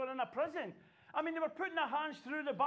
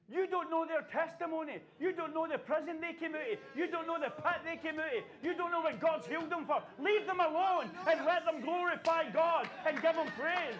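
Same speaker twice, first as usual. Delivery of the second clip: rising preacher's cry, building to full voice; preaching build; 3 semitones higher than usual. Real, not acted. Preacher building to a shout at the congregation. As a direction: drive each line harder until the last rings out.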